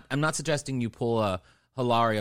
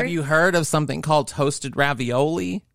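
Missouri accent; 3 dB louder than usual. Shown as a demonstration. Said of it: "I'll do it in my Missouri accent".

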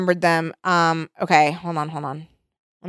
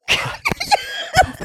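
squeaky high laugh; high squealing laugh. Real, not acted. Laughs at own reading.

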